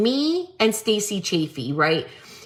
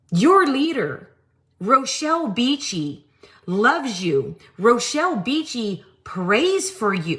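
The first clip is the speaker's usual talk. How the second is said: mock third-person preacher; 2 semitones lower than usual. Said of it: "who talks like that?".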